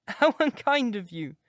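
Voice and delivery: put-on a lovestruck girl pouring her heart out; young girl in love. A narrator's reading. Sybil teasing her brother.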